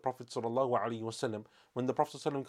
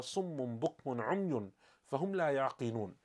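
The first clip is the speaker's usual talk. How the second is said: Quran recitation. Acted. Quoting verse from Surah Baqarah.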